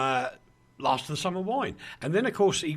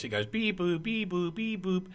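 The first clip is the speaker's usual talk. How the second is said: police siren imitation; 3 semitones higher than usual. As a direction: beep boop siren noise. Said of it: "It comes like this".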